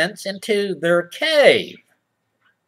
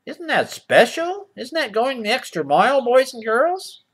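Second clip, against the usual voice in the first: mock kiddie host; 5 semitones higher than usual. Mock kids' TV host sarcasm.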